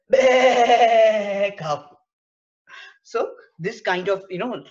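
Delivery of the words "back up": loud, higher "Back up" from the bus crowd; mock shout. A teacher voicing passengers, loud playful shout.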